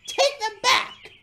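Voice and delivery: slow, high, loud shout; very high, drawn-out furious demand; furious order. A narrator's reading. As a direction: yell it as an outraged command. Furious James orders Boko.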